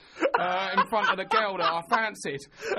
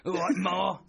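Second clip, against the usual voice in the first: soap character's greeting; 3 dB louder than usual. Retold or imitated. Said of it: "that's what he called it".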